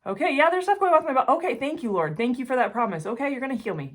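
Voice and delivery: high, quick, grateful reply; eager thanks. Retold or imitated. Her answering the Lord's healing promise, high and eager.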